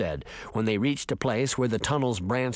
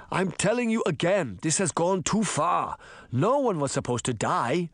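lightly voiced worried principal, pitched up at first; mildly distressed objection; agitated principal; 4 semitones higher than usual. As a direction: protest anxiously in an argument. Principal argues, wringing his hands.

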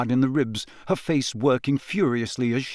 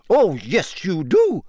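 higher, irritated teacher; irritably; 5 semitones higher, 3 dB louder, slower than usual. A narrator's reading. McGonagall contradicting Harry, irritated. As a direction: snap back at the boy. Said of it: "said Professor McGonagall irritably".

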